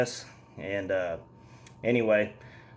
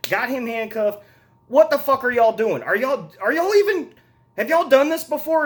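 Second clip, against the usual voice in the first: exasperated rant; 6 semitones higher than usual. Real, not acted. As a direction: blast the characters for being clueless, voice climbing high. Exasperated rant about dumb characters.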